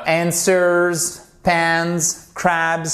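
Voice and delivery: ANSWERS, PANS, CRABS stretched with buzzing z; model pronunciation. Shown as a demonstration. Teacher practises with students, demonstrative pronunciation. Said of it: "cette prononciation".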